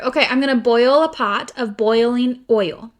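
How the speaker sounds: "boil", "boiling" and "oil" said with a full oi; careful boil. Shown as a demonstration. Sister saying it the way her sister made her. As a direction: stretch each "boil" and "oil" with a clear oi. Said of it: "That's not how I say it".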